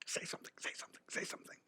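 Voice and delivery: urgent hushed whisper; whispered inner voice. Retold or imitated. His restless brain nagging him during silence, whispered. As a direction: breathe it like a restless thought.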